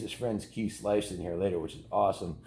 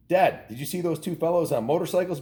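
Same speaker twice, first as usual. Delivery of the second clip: put-on higher, eager kid's voice; excited boy; 8 semitones higher, 4 dB louder than usual. A narrator's reading.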